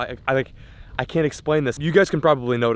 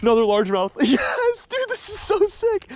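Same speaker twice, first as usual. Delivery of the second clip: excited yelling; 3 dB louder than usual. Real, not acted. Catching fish, excited cries.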